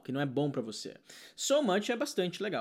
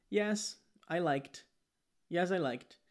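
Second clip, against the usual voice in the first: slow, hesitant learner's English; mock Brazilian learner; 4 dB quieter, much slower than usual. Teacher mimics a Brazilian student's wrong answer, slow and unsure. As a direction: imitate a student getting it slightly wrong. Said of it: "o brasileiro vai falar assim".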